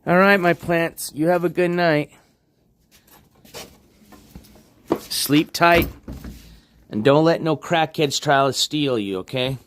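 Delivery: high-pitched good-night to the plants; talking to plants. Real, not acted. Streamer to his plants at bedtime, high-pitched cooing.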